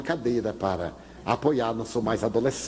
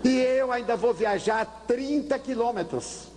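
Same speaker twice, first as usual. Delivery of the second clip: much higher, slow complaint; drawn-out high grumble; complaining father; 9 semitones higher, slower than usual. Retold or imitated. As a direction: grumble about the long trip.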